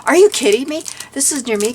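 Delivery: high, loud, thrilled disbelief; squealing with delight at a store find; excited disbelief. Retold or imitated. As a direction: gush like you can't believe your luck. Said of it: "I was like".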